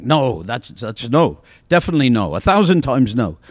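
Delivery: mock-furious, pushing back harder; emphatic refusal. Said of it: "galvanized into emotion".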